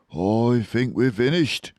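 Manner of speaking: despairing badger. A narrator's reading. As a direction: give up all hope.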